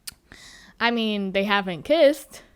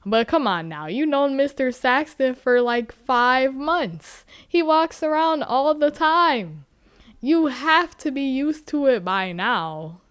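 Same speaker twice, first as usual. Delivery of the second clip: indignant rant; 3 semitones higher, 4 dB louder than usual. Real, not acted. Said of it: "I'm like".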